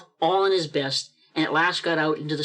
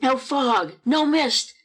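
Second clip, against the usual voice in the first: high, savouring each word in wonder; exultant; 7 semitones higher, much slower than usual. A narrator's reading. Narrator at Scrooge's open window on a glorious morning, exultant. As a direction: ring out each phrase in rapture, unhurried.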